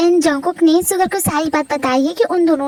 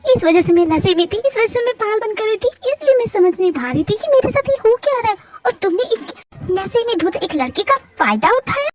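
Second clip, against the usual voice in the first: raised, hurt accusing voice, pitched up; angry young woman. Acted. Heroine confronting the doctor over last night, hurt and accusing. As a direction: accuse him, stung and bitter.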